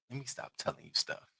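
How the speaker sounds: breathy laughing words; laughing through it. Retold or imitated. Daughter retelling her laughing reply to mom. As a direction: giggle the words out.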